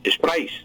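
"sprays" repeated alone, final S sounded; isolated "sprays" with its closing hiss of S. Shown as a demonstration. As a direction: finish "sprays" on a distinct "ais". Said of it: "Así, con S".

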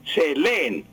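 leen stressed on the first E: LÉ-en; acento grave. Shown as a demonstration. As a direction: model se leen with weight on LÉ. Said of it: "se dice". (leen con acento en la primera e)

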